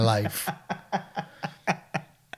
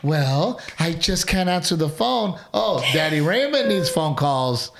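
a light mock of the wife brushing him off, then fawning over her father; dismissive excuses, then sweetly eager; mock lazy excuses. Husband mocks wife's excuses to him.

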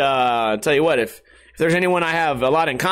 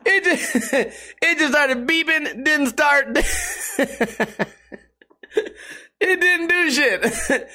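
high-pitched, real giggling delivery; talking through laughter; 9 semitones higher, slower than usual. Real, not acted. Podcaster recounts his computer failing to start, cracking up. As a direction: squeeze the words out between laughs.

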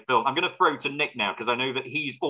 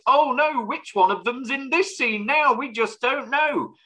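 much higher, hammed-up panic, slowing on the last words; mock confused viewer; 11 semitones higher than usual. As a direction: play a baffled viewer in mock despair. Mocking confused viewer of the film.

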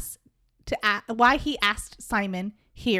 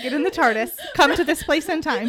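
dramatic call; 3 semitones higher, 5 dB louder than usual. Pretend. Dramatic tardis invitation.

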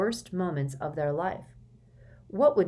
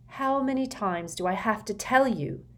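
rising temper; 5 semitones higher than usual. Acted. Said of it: "temper and voice rising together".

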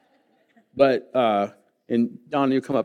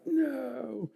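flat refusal; 13 semitones higher, 8 dB quieter than usual. Retold or imitated. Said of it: "and I'm like".

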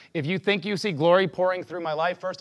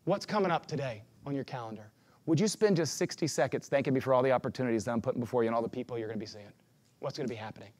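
God's voice; 5 semitones lower, 7 dB quieter than usual. Retold or imitated. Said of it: "And he goes".

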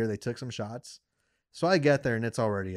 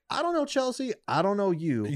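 baffled high retort; 9 semitones higher than usual. Retold or imitated.

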